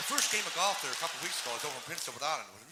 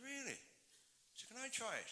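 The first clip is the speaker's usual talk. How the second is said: amazed buddy; 6 semitones higher, 13 dB quieter than usual. Acted. Amazed buddy hears of genie.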